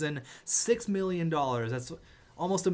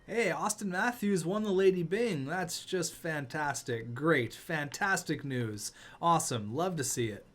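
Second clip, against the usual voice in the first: deadpan fake praise; sarcastic. Real, not acted. Frustrated fan sarcastically praising his team's award news. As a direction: praise it while meaning the opposite. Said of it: "I'm being very sarcastic right now".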